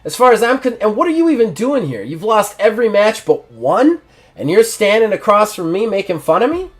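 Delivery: high, indignant pushback; offended champion. Acted. Champion snaps back at the smirking rival. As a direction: cut him off, offended. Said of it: "He's like".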